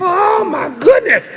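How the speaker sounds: high, loud cry of amazement; surprised shout. Real, not acted. Child reacting loudly to the clover field, surprised shout.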